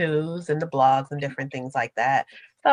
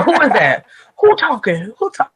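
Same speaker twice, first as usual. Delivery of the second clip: loud imitation of his who is that; hamming up the angry man; quoting the Clubhouse man's outburst, mock yell; 5 semitones higher, 10 dB louder than usual. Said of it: "Especially the".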